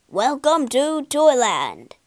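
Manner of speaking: slow, hearty call of welcome. Acted. Tin soldier greets the washed-up puppet, slow calling out. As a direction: call it out slowly to the newcomer. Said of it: "called the tin soldier".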